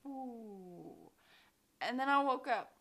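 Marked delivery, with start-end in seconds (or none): 0.1-1.1 falling power down whoosh. Retold or imitated. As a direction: imitate a machine winding down. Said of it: "I heard the power down sound of".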